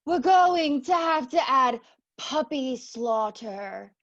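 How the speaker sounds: slow, grave tragic declaration; Greek tragedy. Acted. Judge solemnly pronouncing doom in Greek tragedy style, slow. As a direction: declaim it like a doomed chorus. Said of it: "Greek tragedy".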